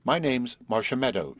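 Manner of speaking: mild emphasis on "Marcia Meadow"; emphatic. A narrator's reading. Marcia giving Horace her name, "Marcia Meadow" mildly emphatic. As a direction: state "Marcia Meadow" with a touch of insistence. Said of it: "she said emphatically".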